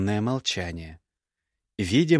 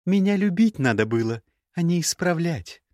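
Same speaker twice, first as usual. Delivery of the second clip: reproachful, bitter; 8 semitones higher than usual. Acted. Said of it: "с укором ... горечи в голосе".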